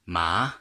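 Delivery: ma rising upward; second tone ma. Shown as a demonstration. Teacher demonstrating Mandarin second tone on ma. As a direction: say ma sliding up. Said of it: "going up".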